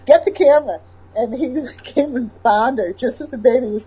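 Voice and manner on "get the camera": insistent wife. Retold or imitated.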